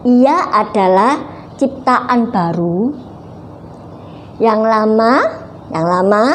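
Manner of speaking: put-on reads the verse slowly, word by word for the children; a deliberate, measured Bible recitation; slow scripture reading. Teacher reading the verse slowly to the children.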